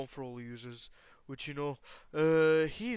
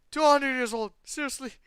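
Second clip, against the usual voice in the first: yelling at chat; 10 semitones higher, 11 dB louder than usual. Real, not acted. Exasperated yell at chat.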